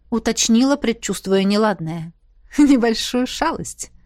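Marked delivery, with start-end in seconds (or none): 2.6-3.9 slow, playful admission with a smile; smiling. A narrator's reading. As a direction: smile slyly on the words. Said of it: "улыбнулся полковник". (с улыбкой, игриво)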